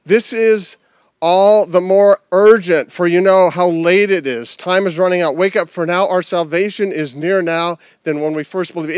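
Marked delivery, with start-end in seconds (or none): 0.1-4.6 preacher pressing urgency on the church; urgent preaching. Real, not acted.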